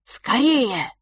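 high, urgent call; urgent hurry. Acted. Fil hurrying his brother to flee, urgent. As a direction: rush him along.

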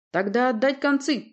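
loud, high order on концы; command. A narrator's reading. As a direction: shout "отдать концы" as a ship's order. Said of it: "приказал Порти".

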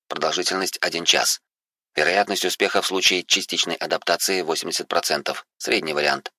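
soft, even machine announcement; lightly voiced system AI. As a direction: read it like a calm onboard computer. Implant system lists options.

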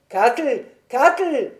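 appeler la servante, de plus en plus aigu; héler quelqu'un dans la maison; appel fort. A narrator's reading. (double appel, le second plus fort)

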